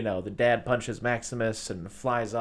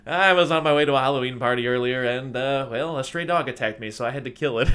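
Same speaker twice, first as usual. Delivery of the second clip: casual excuse; 3 semitones higher, 6 dB louder than usual. Retold or imitated. Parnell character explaining the blood.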